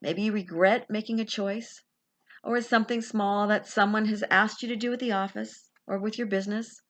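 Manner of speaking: calm guided meditation, long pauses; guided visualization. Acted. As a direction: gently lead them inward, pausing between phrases.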